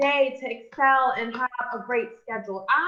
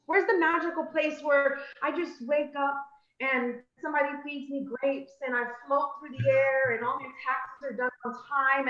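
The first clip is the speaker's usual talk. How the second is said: dreamy wishful asker; 2 semitones higher than usual. Retold or imitated. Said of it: "we are really asking".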